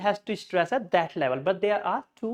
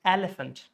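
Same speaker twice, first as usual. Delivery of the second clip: elephant as EL-uh-funt; stress on first syllable. Shown as a demonstration. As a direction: punch EL, reduce the rest of elephant. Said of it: "on the first one".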